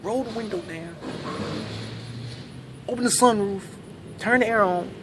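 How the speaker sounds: rising, mocking know-it-all listing the obvious. Comic mocking the audience's easy fix. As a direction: needle him like a smug backseat driver. Imitating smug audience advice.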